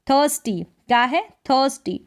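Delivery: थर्स्टी with a half r, "thəsṭi"; model word. Shown as a demonstration. Teacher drilling the word for students, careful pronunciation. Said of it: "आधे र के रूप में भी आप produce कर सकते हैं".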